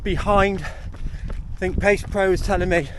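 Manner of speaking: talking on the run, a bit breathless; while running. Real, not acted. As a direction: speak between strides, pushing the pace. Approaching the climb mid-run.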